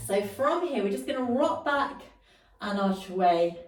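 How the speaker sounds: breathless from the exercise; out of breath. Real, not acted. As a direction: talk while short of breath. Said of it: "Whew, I'm out of breath now".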